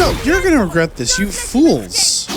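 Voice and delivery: hammed-up defiant yell; battle shout. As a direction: throw the threat right back. Shouting back at enemy.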